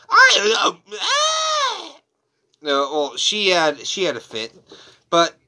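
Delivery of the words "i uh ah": high, loud cry of exasperation; frustrated outburst. Retold or imitated. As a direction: let it burst out in mock despair. Frustrated at the wrong name.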